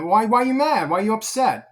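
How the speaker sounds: God taunting a pouting son; mocking God. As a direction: poke at him, half amused. God questioning sulking Cain.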